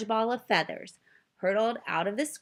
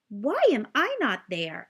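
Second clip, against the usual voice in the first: confused; 4 semitones higher, 4 dB louder than usual. Acted. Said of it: "asked Digiduck, confused".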